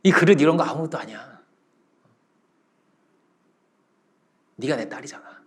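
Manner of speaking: understated parental tenderness; tender reassurance. Retold or imitated. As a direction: gently wave the worry away. Master comforting adopted daughter.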